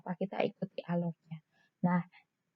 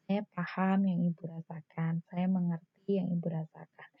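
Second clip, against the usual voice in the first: calm empathy; 3 semitones lower, 3 dB quieter than usual. Shown as a demonstration. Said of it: "Tadi contohnya misalnya".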